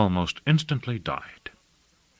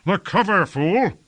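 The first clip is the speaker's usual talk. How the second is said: raised, angry command at a higher pitch; higher-pitched angry rebuke; harsh angry cry; 10 semitones higher, 3 dB louder than usual. A narrator's reading. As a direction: cry it out at the fool, harsh with anger. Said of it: "in a voice harsh with anger".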